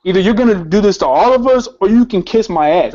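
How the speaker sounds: indignant, pressing retold challenge; insistent retelling of defiance; heated protest. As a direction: argue it out, worked up. Retold angry challenge to officer.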